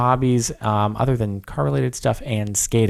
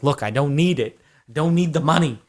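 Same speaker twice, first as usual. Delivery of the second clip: mildly exasperated insistence, rising in pitch; playfully insist, as if pleading with generous donors; mock protest; 3 semitones higher than usual.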